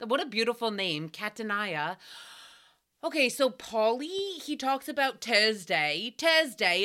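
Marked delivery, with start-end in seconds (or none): 1.1-2.0 Catania as cat-a-NAI-a; misread pronunciation. Shown as a demonstration. Host admiring the name, Catania read as cat-a-NAI-a. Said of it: "That's how I always see it". 5.2-6.8 mimicked Irish accent on the day. Host imitating a guest's day of the week, Irish accent. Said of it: "in his Irish accent".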